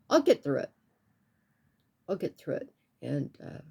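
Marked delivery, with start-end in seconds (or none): 2.1-2.7 much softer, turned inward; soft private echo of the line before; quiet to herself. Real, not acted. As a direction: murmur it as if only to yourself. Repeats reassurance to herself.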